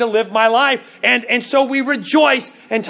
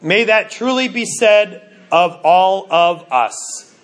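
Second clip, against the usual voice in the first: prayerful wish; 5 semitones lower, slower than usual. Real, not acted. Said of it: "prayerful close".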